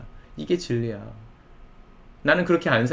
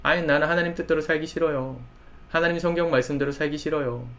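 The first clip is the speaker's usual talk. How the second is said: higher-pitched mild mock protest; imitated reluctant complaint, pitched up a little; disgruntled young believer; 4 semitones higher than usual. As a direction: act out a youth mildly objecting. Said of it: "자꾸만 강요하냐고 불편해합니다".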